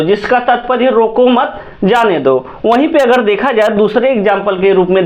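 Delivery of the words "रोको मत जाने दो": "रोको मत" run together, then a break before "जाने दो"; pause after मत. Shown as a demonstration. Teacher explains the meaning, pausing after "मत". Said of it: "जहाँ हम लोग ठहराव करेंगे".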